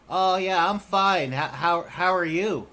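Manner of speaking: squeaky eager goblin answer; goblin reply. Acted. Rennie answers Lily's Goblin question, high and loud. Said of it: "he responds".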